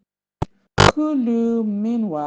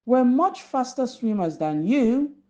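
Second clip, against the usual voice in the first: exclaiming; 5 semitones higher than usual. Acted. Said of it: "Zap exclaimed".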